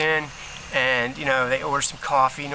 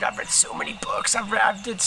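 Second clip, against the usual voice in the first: whispered aside; 5 semitones higher than usual. Real, not acted. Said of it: "whispered aside".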